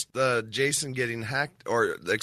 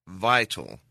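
vital punched, louder and falling; stress on vital; 4 dB louder than usual. Shown as a demonstration. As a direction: lean hard on vital. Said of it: "and I can't stress this enough".

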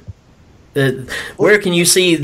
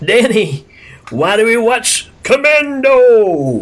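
excited; 7 semitones higher, slower than usual. Real, not acted. Host hyping the question.

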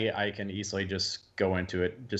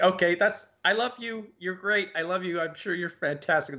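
much higher mock-mom voice, easing back down; imitated mom; 8 semitones higher than usual. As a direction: politely back out like an apologetic mom. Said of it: "And she'd be like".

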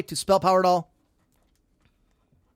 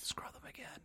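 wicked stepmother; 22 dB quieter than usual. Pretend. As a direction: hiss orders like a cruel stepmother. Stepmother ordering more scrubbing.

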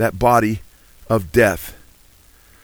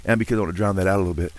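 faster cadence; 4 semitones lower, 4 dB quieter, faster than usual. Real, not acted. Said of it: "keep my cadence a little bit faster".

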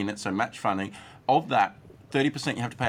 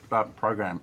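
mouth full; slower than usual. Real, not acted. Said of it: "I've got a burrito in my mouth".

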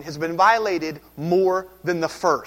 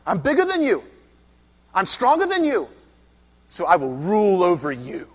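boastful defiance; 4 dB louder than usual. Retold or imitated. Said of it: "For centuries has said".

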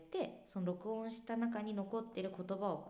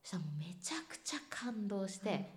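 whisper. Real, not acted. Recalling being deeply moved.

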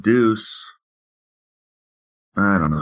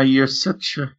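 Irish accent; 4 semitones higher than usual. Shown as a demonstration. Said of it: "Just try".

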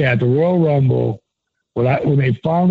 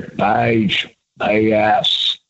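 Michael Hayes voice; 5 semitones lower, much slower than usual. Retold or imitated. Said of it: "could do a dead-on Michael Hayes".

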